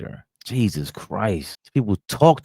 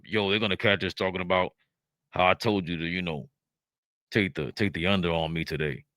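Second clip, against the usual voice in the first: a hint of a hushed, secretive aside, much softer; hushed mock player talk; 5 dB quieter than usual. NBA player secretly tipping off a teammate, hushed mock aside. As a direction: play it like a player hiding words behind a hand. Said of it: "Why do you talk like this".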